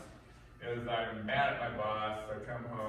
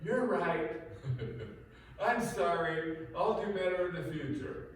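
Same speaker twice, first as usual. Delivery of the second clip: mock wife apologizing; 7 semitones higher, 4 dB louder than usual. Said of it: "She jumps up here and goes".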